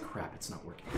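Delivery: unvoiced whisper of a realization; whispered thought. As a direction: hiss it to yourself, caught out. GM voices Ivory's thought.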